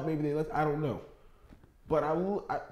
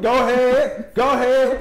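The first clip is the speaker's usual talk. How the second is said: mock drive-thru speaker; 7 semitones higher, 9 dB louder, slower than usual. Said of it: "Don't be".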